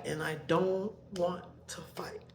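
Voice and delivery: soft unvoiced whisper. Real, not acted. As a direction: breathe it out, defeated. Whispered after saying she won't fight.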